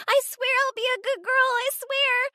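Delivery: put-on terrified kids begging for mercy; crying children's pleas. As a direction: plead for your life like a sobbing child. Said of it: "all the kids crying for their life".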